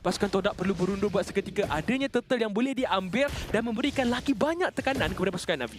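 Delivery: lively live commentary; esports caster. Acted. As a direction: keep the play-by-play rolling. Live play-by-play casting.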